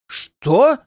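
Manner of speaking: high, loud panicked cries; panicked shouting. A narrator's reading. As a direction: yell in sudden terror. Healer panics at the spark.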